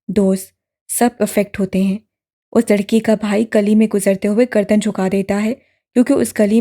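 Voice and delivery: a grave, firm man laying out the charge; stern accusing friend. Acted. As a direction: lecture him heavily, blaming him. Shan lectures the victim blamer. (सख़्त, इल्ज़ाम लगाती मर्दाना आवाज़)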